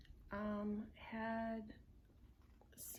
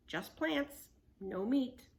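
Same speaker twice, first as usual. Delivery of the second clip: relieved exclaiming; 4 semitones higher, 5 dB louder, slower than usual. Acted.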